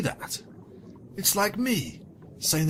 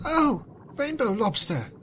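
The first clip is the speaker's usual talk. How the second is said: much higher, hammed-up grieving cry; mock crying; 9 semitones higher than usual. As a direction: wail her name in mock grief. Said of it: "she cried".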